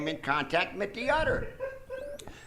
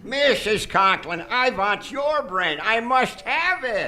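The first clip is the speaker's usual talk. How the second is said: slow, louder craving; hungry villainous insistence; greedy villain; 2 semitones higher, 3 dB louder than usual. Acted. Mad doctor to Mrs Conklin, slow greedy menace.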